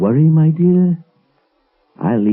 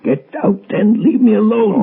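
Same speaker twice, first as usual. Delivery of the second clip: much higher, panicked yell; frantic shout; 12 semitones higher, 3 dB louder than usual. Acted. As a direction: scream it out in terror. Professor panics, orders voice away.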